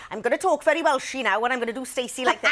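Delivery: lightly mocked Cardiff accent, quick; poking fun at your own Cardiff accent; retold Cardiff accent attempt. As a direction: rattle off a hammed-up Cardiff accent with a laugh. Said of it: "doing a Cardiff one".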